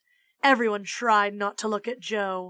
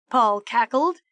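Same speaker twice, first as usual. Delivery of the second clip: usual speaking voice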